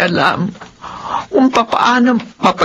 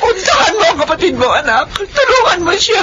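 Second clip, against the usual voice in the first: pleading; 5 semitones higher than usual. Acted. Mother begs daughter to help.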